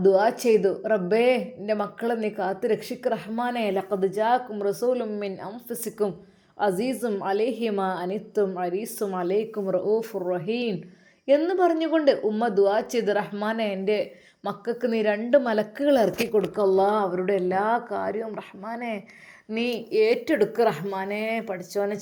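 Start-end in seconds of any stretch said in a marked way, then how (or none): 0.9-10.7 slow, devout recitation of a dua; heartfelt prayer recitation. Acted. Mother recites dua and Quran verse. 13.2-21.2 heartfelt prayer. Acted. Mother continues her dua.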